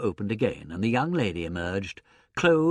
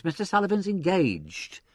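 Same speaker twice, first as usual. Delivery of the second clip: higher-pitched protest; 8 semitones higher than usual. A narrator's reading. Secretary to surging applicants, protesting. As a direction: insist to the crowd he's busy. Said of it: "protested the secretary".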